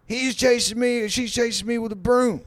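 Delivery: frantic squeaky complaint; high panicked guy. Retold or imitated. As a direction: play the scared guy being chased. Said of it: "And the guy's like".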